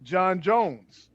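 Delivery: soft, low self-introduction; solemn quiet intro. Retold or imitated. Manhunter introduces himself to Batman, soft and grave. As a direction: say your name in a hushed, grave tone. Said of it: "I'm thinking he was gonna tell him".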